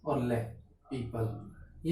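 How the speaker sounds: teacher slowly blends the sounds into पीपल; very slow modelling. Shown as a demonstration. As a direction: stretch each sound like a teacher blending letters. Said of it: "बड़ी, फिर पे".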